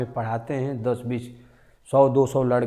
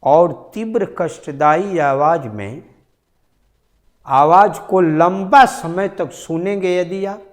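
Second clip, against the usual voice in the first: much louder and higher, straining; loud demo; 5 semitones higher, 7 dB louder than usual. Shown as a demonstration. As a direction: push the voice to a painful loudness. Shows painfully loud sound. (बहुत ज़ोर से, ऊँची खिंची आवाज़ में)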